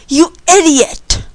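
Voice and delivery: hollered insult. A narrator's reading. Man hollering at Tom after a slap, angry. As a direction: holler it slowly, pitched a little up. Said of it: "the man hollered".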